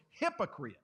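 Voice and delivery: Jesus firmly naming the leader a hypocrite; firm call-out. Retold or imitated. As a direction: call him out with firm authority. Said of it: "yells to this guy in a very firm voice".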